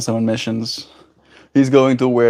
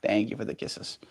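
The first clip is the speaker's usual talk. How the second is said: whisper; 4 semitones lower, 15 dB quieter than usual. Real, not acted.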